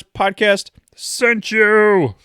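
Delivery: slow, high, loud robot voice. Pretend. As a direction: intone it like a robot. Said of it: "Was that, like, a robot voice at the end there?".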